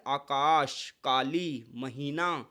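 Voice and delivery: आकाश, काली, महीना drawn out with a long आ; slow word demo. Shown as a demonstration. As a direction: stretch the आ in आकाश. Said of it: "कुछ example". (आ को खींचकर बोलें)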